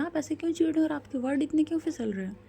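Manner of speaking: mildly indignant questioning; taken aback. Acted. Acted challenge to an irritated friend.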